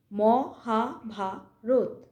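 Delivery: "মহাভারত" split into four separate beats; দল ভেঙে উচ্চারণ. Shown as a demonstration. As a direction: slowly break "মহাভারত" into mo, ha, bha, rot. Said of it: "আমরা কি বলি?". ("মহাভারত" ধীরে চার ভাগে ম-হা-ভা-রত)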